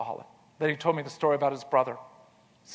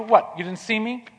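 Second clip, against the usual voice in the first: mock shout; 6 semitones higher than usual. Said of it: "And he shout at you".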